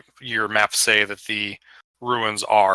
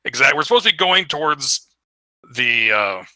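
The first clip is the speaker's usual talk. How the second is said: somewhat raised, irritated complaint; grumbling giant; 3 semitones higher than usual. Acted. Game master voices giant scolding his companion, grumbling. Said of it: "start stomping down the clouds".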